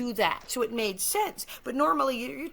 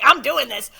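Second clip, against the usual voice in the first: mock defiance; 4 semitones higher, 13 dB louder than usual. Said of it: "She's like".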